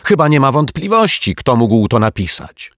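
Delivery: high, loud and insistent; excited boy calling out; shouting. A narrator's reading. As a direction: exclaim it impatiently, easing slightly. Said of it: "krzyknął Dominik".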